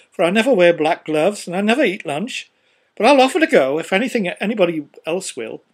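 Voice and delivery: a breezy merchant tossing it off; pompous businessman. A narrator's reading. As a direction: ramble on airily, pleased with yourself. First speaker's long speech.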